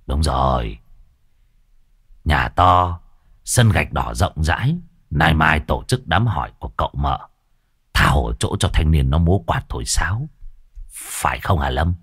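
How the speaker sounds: put-on a scheming old man boasting; lightly voiced old codger; old man Đồng. A narrator's reading. Character Đồng speaks.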